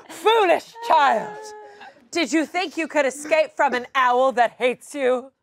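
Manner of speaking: cold rasping evil emperor. Acted. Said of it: "doing the best that I can ... my voice".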